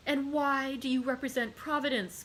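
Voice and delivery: cried out. Acted. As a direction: cry it back at him. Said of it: "cried Mercédès".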